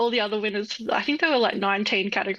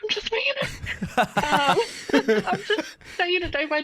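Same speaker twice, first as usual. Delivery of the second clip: breathy conspiratorial whisper, up high; playful whisper; 7 semitones higher than usual. Real, not acted. Confessing to the hosts she has no plan, in a whisper. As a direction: let it slip like a cheeky secret. Joking about having no plan.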